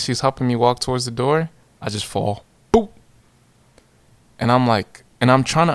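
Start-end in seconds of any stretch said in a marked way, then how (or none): 2.7-2.9 quick "boop" sound effect; imitated thud. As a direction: pop out a comic falling noise. Imitating the fall.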